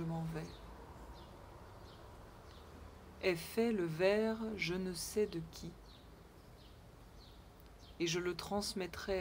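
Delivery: measured poem reading with long pauses between lines; poem recitation. Acted. Reading an old anonymous poem to online viewers, measured recitation. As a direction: recite it line by line, leaving silence between stanzas. Reads an eleventh-century poem aloud.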